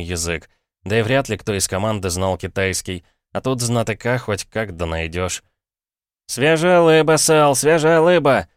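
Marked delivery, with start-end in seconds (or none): 6.3-8.5 high, loud, slow, l for r; shouting fish seller, Chinese accent. Acted. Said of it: "Как картавят обычно китайцы".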